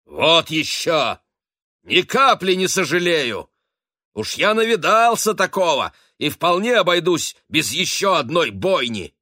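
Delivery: put-on old captain raging against another slaughter; furious outburst. A narrator's reading. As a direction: roar it so the whole table flinches. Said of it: "вдруг рассвирепел".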